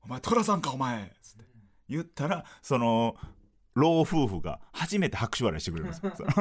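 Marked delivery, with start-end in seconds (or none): 0.0-1.1 Takeshi impression. Comedian calling out his partner as Tora-san, Takeshi impression. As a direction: mimic a brusque Tokyo comic's jab. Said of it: "で、俺がたけしさんで".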